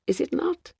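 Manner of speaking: whispered. A narrator's reading. Aside to Joan at the gates.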